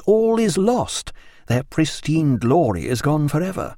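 a touch of mournful fussiness; understated worried naturalist; lightly voiced fretful doctor.

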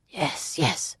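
soft reassurance, no urgency; mild, peaceable. A narrator's reading. Waylord letting a fugitive in, mild and peaceable. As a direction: welcome them quietly and calmly. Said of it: "He spoke in a mild, peaceable tone".

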